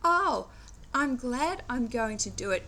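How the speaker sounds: mildly acted gladness at going; joyful. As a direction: sound pleased to be doing it. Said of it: "if you have joy".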